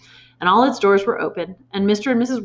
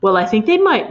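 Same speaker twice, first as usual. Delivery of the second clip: hopeful; 7 dB louder than usual. A narrator's reading. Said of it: "Matilda cried".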